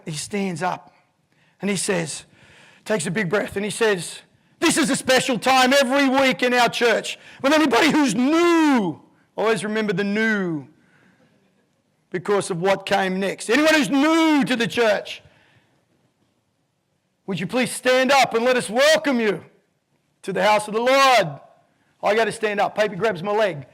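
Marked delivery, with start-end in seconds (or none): 4.6-9.0 raised, loud pulpit voice; preacher announcing. Retold or imitated. Reverend announces newcomers' welcome. 13.5-21.4 raised, loud pulpit voice; preacher announcing. Retold or imitated. Reverend invites newcomers to stand.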